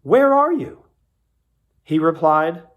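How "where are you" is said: high, loud call across the garden; God calling out to the hiding man. A narrator's reading. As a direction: cry out loudly, searching. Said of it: "the Lord God called to the man".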